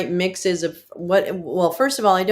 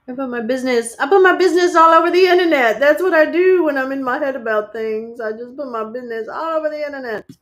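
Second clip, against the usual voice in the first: high, loud and quick, giggling at herself; amused confession of oversharing online; laughing self-mockery; 8 semitones higher, 6 dB louder than usual. Real, not acted.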